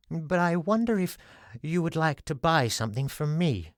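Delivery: a hint of a shy salesman; timid little man. Flinty's voice.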